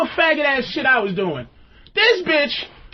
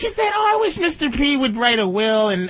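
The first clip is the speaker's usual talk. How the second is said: imitating girlfriend; 2 semitones higher than usual. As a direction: gush it out like she's selling it. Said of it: "You know what she said".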